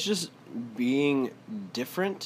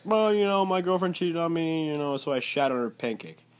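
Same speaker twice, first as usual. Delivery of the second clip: white radio caller; 4 semitones higher than usual. Retold or imitated. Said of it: "white people will call in".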